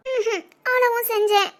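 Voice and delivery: laughing through tears; teary giggle while admitting she cried; laughing and crying. Acted. Wife answering her husband, laughing through tears. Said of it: "இப்ப எதுக்கு சிரிக்கிற".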